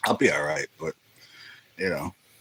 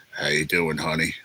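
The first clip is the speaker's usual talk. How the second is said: low-voiced woman impression; 4 semitones lower than usual. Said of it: "she goes, just".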